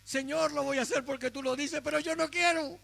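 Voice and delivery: obey but let the resentment show; grudging obedience. Shown as a demonstration. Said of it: "Y aquí está nuestra reprimenda". (obediencia a regañadientes, quejándose)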